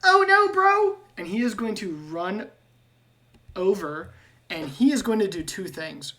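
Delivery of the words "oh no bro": panicked high cry. Acted. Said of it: "gonna see Hyen go down and go".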